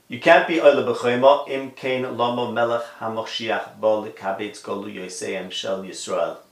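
flat deadpan reading without expression. Shown as a demonstration. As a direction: read it with no expression at all. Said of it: "I read it in that deadpan voice".

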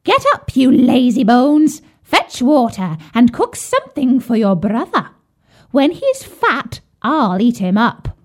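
high, loud scolding shriek; witch crying out. Acted. Witch waking Gretel, shrill and loud. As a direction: bark it at her to wake her up. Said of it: "and cried".

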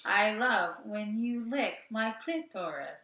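slow, level machine voice; robot voice. Pretend. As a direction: recite it like a robot companion. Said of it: "sex robot voice".

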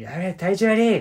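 a showy, loud moan about feeling sick; loud complaint.

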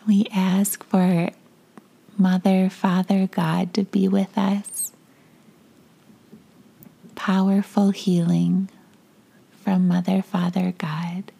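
guided meditation. Acted.

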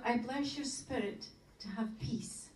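soft, slow words of blessing; gentle blessing. Shown as a demonstration. Teacher modelling a blessing between spouses, gentle and soft. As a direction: bless them quietly and unhurriedly.

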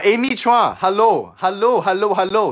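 high, loud cheery hellos; excited greeting. Real, not acted. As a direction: greet her brightly. Greeting newcomer on live.

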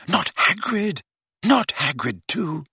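lightly voiced anxious inner thought; a touch of dismay, as if thinking it. A narrator's reading. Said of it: "an unbidden voice in his head said".

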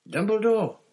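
high, loud desperate gasp of a name. A narrator's reading. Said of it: "gasped Mister Crouch".

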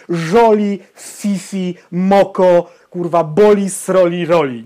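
loud, disgusted listing of cutesy words; mocking diminutives. Podcaster mocks diminutives he hates, loud and disgusted. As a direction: spit out each baby-talk word with contempt. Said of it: "używanie zdrobnień, to jest zbrodnia".

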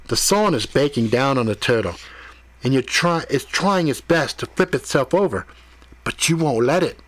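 measured examiner, rising in pitch toward the end; lightly voiced Mordecai-style questioner. Mordecai continues testing Ethan, lightly voiced questioner. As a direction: press the scenario home point by point.

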